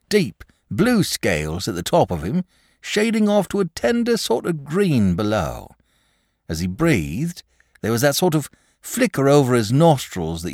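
high, emphatic rustic storyteller; agitated country shepherd. Acted. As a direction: describe the beast as an uneasy shepherd. Shepherd describes the dragon.

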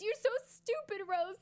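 quoting Jack. Retold or imitated. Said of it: "and then he says".

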